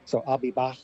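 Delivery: Scouse-style back with a fricative k; Scouse accent. Shown as a demonstration. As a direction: demonstrate Scouse back with the final k softened toward sh. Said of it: "it becomes more like a sh".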